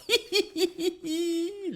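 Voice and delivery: high, soft falsetto giggle; a quick squeaky laugh. Acted. Host giggles in character.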